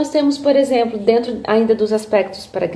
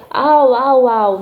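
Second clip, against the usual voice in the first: spoken dog barking, a little louder; playful dog bark; 4 dB louder, much slower than usual. Shown as a demonstration. Therapist shows a child's game of dog sounds, playful barking. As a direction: imitate a dog barking in play. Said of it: "vamos fazer o som do cachorro".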